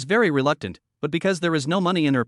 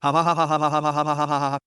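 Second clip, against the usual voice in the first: fast hearty laugh; faster than usual. Acted. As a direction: burst out laughing. Belly laugh after joke.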